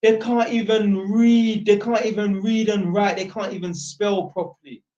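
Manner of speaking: lightly voiced Jamaican grandma, scolding; Jamaican grandma accent. Jamaican grandma pitying prison boys, light Jamaican accent. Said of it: "I'm trying to do Jamaican accent".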